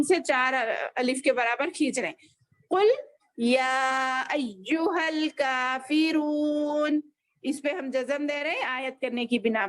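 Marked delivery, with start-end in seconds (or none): 2.7-7.0 long drawn-out Quranic recitation; slow recitation. Shown as a demonstration. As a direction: stretch each vowel like tilawat. Quran teacher recites verse. (धीमी तिलावत)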